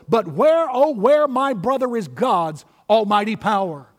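dramatic poem recitation. Acted. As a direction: recite in measured phrases, swelling on the cry.

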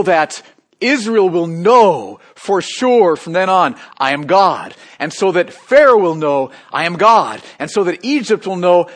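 building loud proclamation; rising, booming declaration; declaring God. Acted. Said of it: "God is saying".

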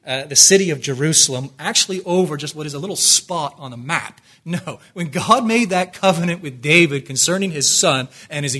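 loud, emphatic sermon delivery; impassioned preaching. Acted. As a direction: preach it with rising conviction. Preaching at full force.

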